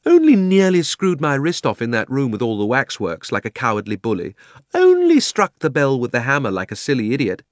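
high, loud sarcastic tirade; scathing, indignant child. A narrator's reading. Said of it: "said Polly sarcastically".

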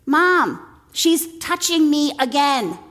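put-on tattle like a whiny little kid; whiny tattling little sibling. Voicing quarreling children.

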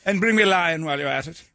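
mock English accent. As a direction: play along as an English noble. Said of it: "It is more fun to be English".

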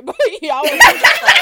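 loud words through bursts of laughter; laughing hard. Real, not acted. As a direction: crack up while teasing. Bursts out laughing mid-tease.

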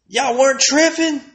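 rising from doubt to full incredulity; incredulous. Real, not acted. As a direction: push it up in mock outrage.

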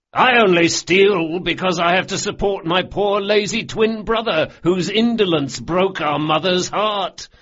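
mock announcement. A narrator's reading. Galdo elbowing Carlo, announcing loudly. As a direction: announce it like a wronged brother. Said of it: "as he made this announcement".

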